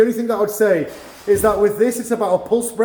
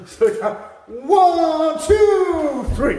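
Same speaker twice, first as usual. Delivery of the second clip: laughing count; 6 semitones higher, much slower than usual. Shown as a demonstration. Coach counts while laughing.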